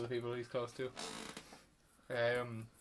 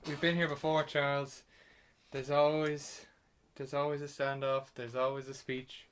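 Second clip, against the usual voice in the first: louder, weighty villain line; dramatic Magneto delivery; 3 semitones higher, 6 dB louder than usual. Retold or imitated. Quoting Magneto's reply to Charles, louder hammed-up villain voice. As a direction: lean into it like a brooding film villain. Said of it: "Michael Fassbender just shoots back with".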